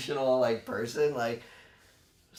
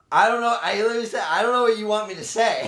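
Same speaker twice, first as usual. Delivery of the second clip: half-laughing, pitched up and louder; laughing retelling; 6 semitones higher, 4 dB louder, faster than usual. Retold or imitated. Friend retelling a baffled reply, half-laughing. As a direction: laugh through the disbelief.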